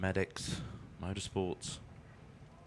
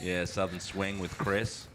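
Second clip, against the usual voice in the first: put-on southern American accent; 3 semitones lower than usual. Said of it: "a Texas sort of a".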